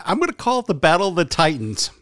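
sarcastic, fast, laughing; deadpan hype through laughter. Real, not acted. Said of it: "that's sarcasm".

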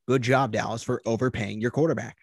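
mildly sarcastic congratulations; slightly lifted, mock-approving praise. Shown as a demonstration. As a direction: congratulate them with a touch of sarcasm.

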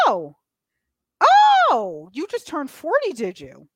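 high, sing-song doctor; lightly voiced doctor. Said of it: "Doctor's like".

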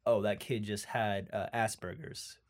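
quiet realization. Retold or imitated. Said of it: "you find out later".

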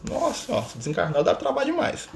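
a hint of a weary spirit complaining; exasperated spirit. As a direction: sigh it out like a spirit fed up with him. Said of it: "eu falei isso pra eles".

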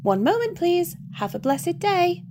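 high, sing-song switchboard operator, slow on the sign-off; chirpy heavenly receptionist. Acted.

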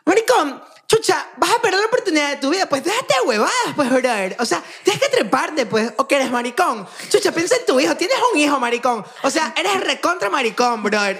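high, badgering bro caricature; hammed-up high-pitched scolding of a friend; exaggerated impression of Lu. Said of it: "mi percepción de cómo yo te percibo".

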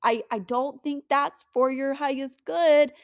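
a hint of God pleading with stubborn people; lightly voiced God warning. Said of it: "And he's like".

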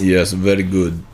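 slow mock Russian accent. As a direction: agree in drawn-out stock Russian. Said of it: "do this in a Russian accent".

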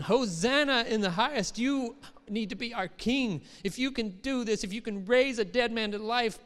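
excited praising crowd. Retold or imitated. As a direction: cheer him in like a worshipping crowd. Crowd praising Jesus quoted.

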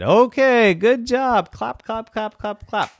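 high-pitched praise with claps spoken out; obliging family. A narrator's reading. Family dutifully applauds the little gymnast, obliging. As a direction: humour the child in a high voice.

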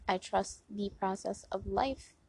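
softly spoken mantra; soft affirmation. Shown as a demonstration. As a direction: say it gently to yourself.

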